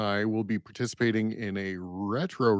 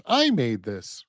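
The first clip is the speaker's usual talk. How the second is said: slowly quoting the show's closing voice; slow TV sign-off quote; slower than usual. Retold or imitated. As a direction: say it slow like a TV end card. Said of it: "the bit at the end of the television shows".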